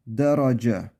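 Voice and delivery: Derace hecelerini birleştirip okumak; Derace, üstün harekeyle açık e ile; Arabic reading. Shown as a demonstration. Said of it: "Del demiyoruz". (Derace'yi harekeye göre oku)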